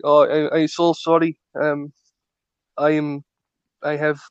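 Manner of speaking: put-on lightly done, halting Russian accent; attempted Russian accent. Russian friend apologises for poor English, tentative Russian accent. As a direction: try an apologetic Russian newcomer, not quite landing it. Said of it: "this your attempt at a Russian accent?".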